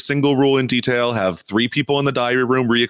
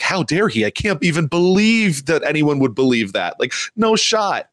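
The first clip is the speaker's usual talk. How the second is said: mildly incredulous, pitched up; 4 semitones higher than usual. Retold or imitated. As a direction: imitate someone in mock disbelief. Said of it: "like, incredulous".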